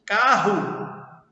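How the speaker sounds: "Carro" with the last o sounded as u; final O as U. Shown as a demonstration. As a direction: say "Carro" ending like "carru". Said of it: "som de U".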